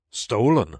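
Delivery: exclaimed. A narrator's reading. King accusing the Hatter, exclaiming. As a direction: pounce on the word. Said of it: "the king exclaimed".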